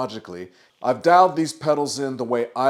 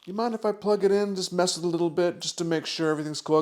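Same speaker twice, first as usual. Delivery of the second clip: quick, higher casual buyer voice; buyer asking; 6 semitones higher, faster than usual. Retold or imitated. Guitarist to owner, quick higher casual ask. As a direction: rattle it off lightly as the buyer. Buyer asks to test the amp.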